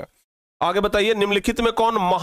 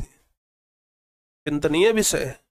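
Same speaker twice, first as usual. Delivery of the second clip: mock solemn; 5 semitones lower, much slower than usual. Teacher's wry aside on praise.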